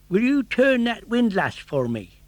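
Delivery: gardener voice. Acted.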